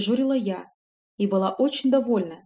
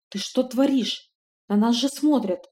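frightened whisper; 3 semitones higher than usual. Acted. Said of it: "испуганно прошептал Алоур".

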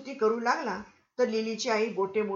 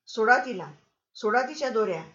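louder, firm order to free her; insistent demand; 5 dB louder than usual. Acted. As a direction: command them to untie her. President demands her release.

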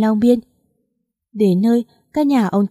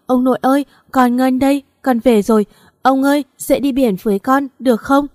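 higher, pleading calls to wake him; desperate grieving call; 4 semitones higher than usual. Acted. Granddaughter pleading at grandfather's body, high desperate call. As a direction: beg him to get up, voice straining up.

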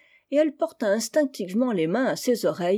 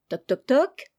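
higher, rhythmic knock-knock-knock; spoken door knock; 5 semitones higher, 3 dB louder than usual. A narrator's reading. Someone knocks on the cousins' door, spoken knocking. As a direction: imitate three raps on a door.

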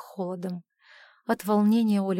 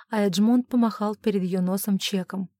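ordinary delivery

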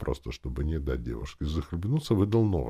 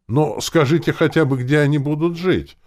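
loud, high-pitched plea; exclaiming; 13 semitones higher, 11 dB louder than usual. A narrator's reading. Uncle pressing the clan about where people will live, exclaiming. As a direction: cry it out, demanding an answer. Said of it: "воскликнул дядя Фома".

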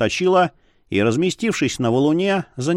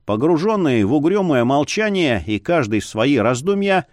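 ordinary delivery, nothing marked

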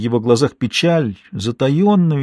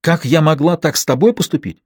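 furious outburst; 6 semitones higher than usual. A narrator's reading. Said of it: "Последнее слово она выкрикнула".

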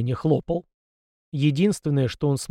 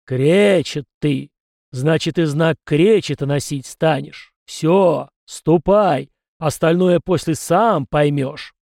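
louder, slow, solemn spirit voice; solemn ancestor spirit; 5 dB louder, slower than usual. Acted. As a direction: pronounce it like a verdict from above. Spirit voice pronouncing a verdict. (торжественно и медленно, голосом духа)

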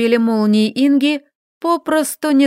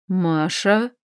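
surprised question; 3 semitones lower, 4 dB quieter than usual. A narrator's reading. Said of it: "Удивлённый вопрос".

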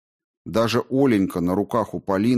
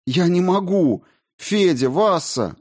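high, weeping plea to husband and sister; begging through tears, voice high; tearful pleading; 8 semitones higher than usual. A narrator's reading. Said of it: "плакала Полина". (мать умоляет мужа и сестру, сквозь слёзы)

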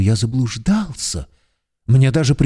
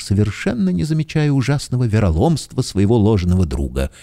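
ordinary delivery

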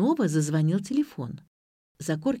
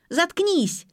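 high, sharp yell; furious yell; 11 semitones higher, 4 dB louder than usual. A narrator's reading. Zakorkina yelling at the narrator before throwing a cup, furious. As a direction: yell to shut her up. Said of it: "заорала Закоркина".

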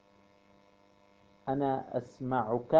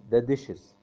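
ordinary talk, nothing marked

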